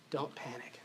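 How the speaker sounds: "Don't panic" soft and low, falling gently; calm reassurance. Shown as a demonstration.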